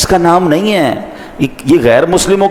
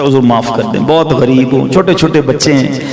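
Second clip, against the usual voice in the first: lightly acted pleading, rising steadily in pitch; pleading thief. Caught thief begs Abu Huraira for mercy, pleading.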